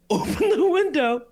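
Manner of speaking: yelling driver. Retold or imitated. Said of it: "the driver is like".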